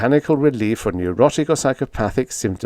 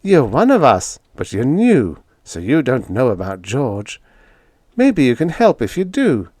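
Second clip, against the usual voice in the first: lightly voiced young woman, a bit higher; young woman, coaxing; 4 semitones higher than usual. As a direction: gently urge George, a hint of a higher girl's voice. Young woman speaks to Infield.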